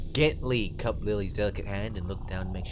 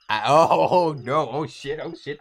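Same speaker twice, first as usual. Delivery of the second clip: alarmed; 4 semitones higher, 7 dB louder than usual. Real, not acted. Player alarmed on recognising the scene.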